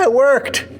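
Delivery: high, happy exclamation; excited. Real, not acted. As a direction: cheer it, thrilled. Celebrating the cut working.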